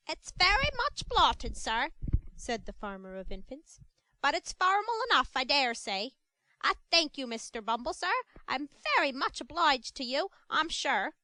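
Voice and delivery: high, ingratiating woman's voice; fawning. Acted. Mrs Mann thanking Mr Bumble, high and ingratiating. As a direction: simper your thanks to the beadle.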